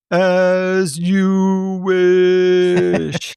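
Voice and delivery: slow, drawn-out tender line; movie quote. Acted. Quizzing a friend on movie quotes, slow and tender. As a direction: breathe it like a devoted farmhand.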